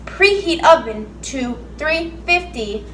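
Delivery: slow, flat robot impression; imitating robot voice. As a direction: copy the robot reading, slowly. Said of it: "You sound like a freaking robot".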